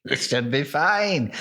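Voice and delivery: lightly voiced farmer, slow; a hint of a vaguely Irish farmer; Farmer Buggerton. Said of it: "why is he Irish?".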